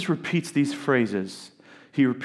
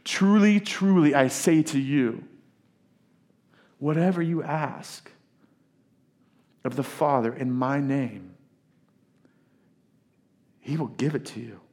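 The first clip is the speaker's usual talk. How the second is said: urgent insistence. Retold or imitated. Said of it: "I'm grabbing you by the collars".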